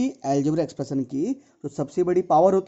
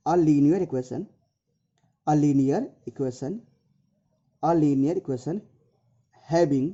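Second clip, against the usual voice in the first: slow phrases with long pauses; measured, piece-by-piece definition; slow dictation; much slower than usual. Real, not acted. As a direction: dictate it bit by bit for note-taking.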